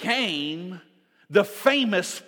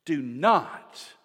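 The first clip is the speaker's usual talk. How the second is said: God announcing himself; 5 semitones higher, slower than usual. Acted. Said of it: "notice what God says when he shows up".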